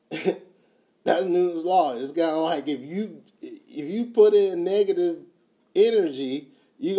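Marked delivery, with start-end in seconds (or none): 0.1-1.9 slow and laughing through the words; laughing repeat. Real, not acted. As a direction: chuckle it out, stretched slowly.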